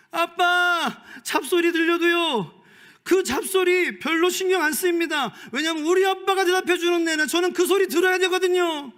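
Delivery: high, loud, tearful preaching cry; crying shout. Real, not acted. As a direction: cry out to the congregation with tears. Preacher's emotional climax.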